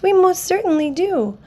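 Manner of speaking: high piping little voice; piped. Acted. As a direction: keep it tiny and high. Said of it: "piped the voice".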